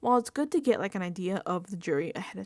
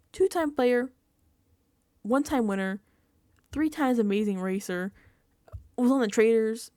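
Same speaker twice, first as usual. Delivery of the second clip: louder listing; 6 dB louder than usual. Real, not acted. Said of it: "Put some fucking respect".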